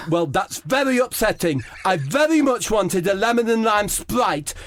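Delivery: high, prim, mournful Harry Kane voice; Harry Kane fussing at the kiosk about his Sprite, voiced high and plaintive; Harry Kane impression. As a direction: whine it politely like a sulky footballer. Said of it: "It's Harry Kane".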